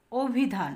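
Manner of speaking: অভিধান said as 'o-bhi-dhan'; closed o vowel. Shown as a demonstration. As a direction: begin অভিধান with a rounded 'o'. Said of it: "আমরা কিন্তু বলি অভিধান".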